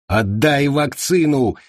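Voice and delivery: high, slow hysterical squeal; hysterical shriek. Acted. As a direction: shriek it in panic. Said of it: "завизжал впавший в истерику Андерсон".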